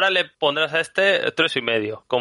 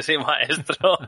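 lightly voiced obedient robot saying "Sí, maestro"; mock servile reply; 3 semitones higher, much slower than usual. Mocking Alexa obeying the kid, light servile tone. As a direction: play the speaker as a meek servant. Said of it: "Le falta decir".

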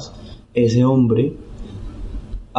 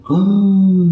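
a high, louder "ah" of giving in; an "ah" of surrender; resigned realization; 8 semitones higher, 4 dB louder than usual. Retold or imitated. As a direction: caught with no way out. Realizing there are no excuses.

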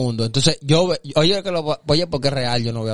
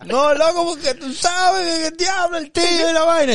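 high-pitched tearful wail; exaggerated crying voice, much higher; mock crying; 13 semitones higher than usual. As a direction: imitate a friend wailing through tears.

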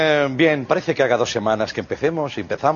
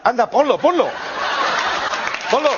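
calling to crew; 11 semitones higher than usual. Real, not acted.

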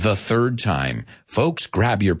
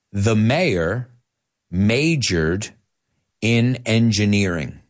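spaced out in short phrases for repeating; model sentence. Shown as a demonstration. Teacher modelling a sentence to repeat, phrase by phrase. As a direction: say it phrase by phrase, with pauses between. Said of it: "Okay, let's say it".

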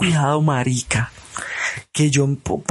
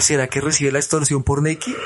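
laughing. Real, not acted. Joking question mid-story.

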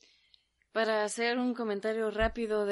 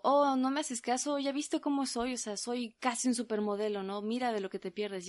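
a smug, raised-voice boast from a would-be model; vain show-off guy; 3 semitones higher than usual. Retold or imitated. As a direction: brag like he thinks he's gorgeous. Imitating a vain rejected man.

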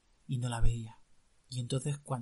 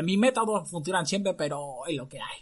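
clown doctor voice; 3 semitones higher than usual. Acted. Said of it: "Aunque hablaba con esta voz".

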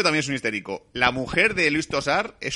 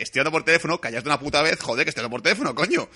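angry father; 4 semitones higher than usual. Retold or imitated. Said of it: "el típico padre cabreado".

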